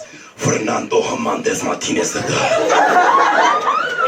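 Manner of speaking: very high, slow, rolled-out Spanish flourish; fancy Spanish name. Retold or imitated. Imagining the hot surfer's name, slow high Spanish flourish. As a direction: savour the name like a telenovela hero. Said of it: "And he goes".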